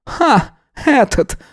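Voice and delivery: high scornful snort of a laugh. A narrator's reading. Old woman scoffing at the nephew's name, high snort. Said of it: "фыркнула она".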